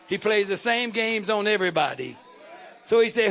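loud, rising preaching shout; fervent preacher at full cry. Real, not acted. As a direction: drive it home at full force.

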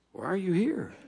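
ordinary delivery

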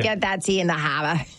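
joking Boston accent; hammed-up Boston catchphrase with dropped R's. Shown as a demonstration. Encore for the host who praised it, Boston accent. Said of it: "that's my Boston accent".

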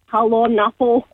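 put-on laughing Scottish accent hello. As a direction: say it like a Scottish woman, giggling. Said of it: "I do it in the Scottish accent too".

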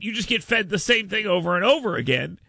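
normal talking voice

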